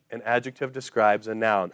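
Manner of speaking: soft imitation of kids reciting by rote; sing-songy recital. Kids giving back the drilled answer, mildly sing-songy. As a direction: lightly mimic a memorized singsong answer, softly. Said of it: "And they're like".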